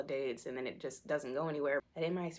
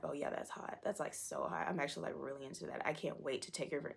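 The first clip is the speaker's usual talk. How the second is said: hushed, slightly seedy mock admirer; murmured imitation of an over-eager date; creepily keen date; 5 dB quieter than usual. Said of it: "they're just like".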